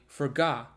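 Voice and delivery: "forgot" cut off on a glottal stop; glottal stop demo. Shown as a demonstration. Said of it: "So if you say".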